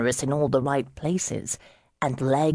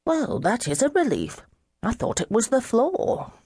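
put-on higher, bright drunken relief at the news; relieved surprise; 8 semitones higher than usual. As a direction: lift it like a happy discovery. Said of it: "Charlie looked surprised".

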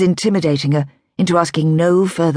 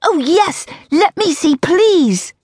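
high, eager exclamation; excited young woman blurting it out; exclaimed; 12 semitones higher, slower than usual. A narrator's reading. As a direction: burst out with delight. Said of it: "she exclaimed".

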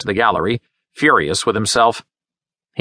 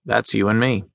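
calm. A narrator's reading. Leonard tells Frida they belong together, calmly. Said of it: "Leonard said calmly".

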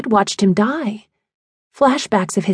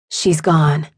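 calm, grave; 5 semitones lower than usual. A narrator's reading. Scarlett breaks the news calmly.

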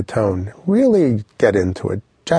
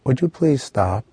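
"Would you please stop" as a higher-pitched request; polite request tune; 4 semitones higher than usual. Shown as a demonstration. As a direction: ask "Would you please stop" without the downward jab. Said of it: "So I could say".

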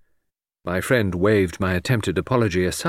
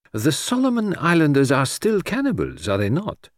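pleasant inquiry, starting high and dropping; Poirot, pleasantly; 7 semitones higher than usual. A narrator's reading. Detective asks his English friend about the islanders, pleasantly. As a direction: ask it with mild politeness. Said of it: "inquired Poirot pleasantly".

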